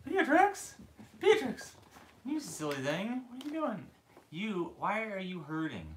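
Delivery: high, loud calling of the puppy's name. Real, not acted. Owner calls loudly and high after her runaway puppy. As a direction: call out to the runaway pup.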